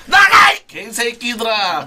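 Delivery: loud, slow angry yell; slow furious shout. Real, not acted. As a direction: drag out the curse in rage. Kicking friends out, furious.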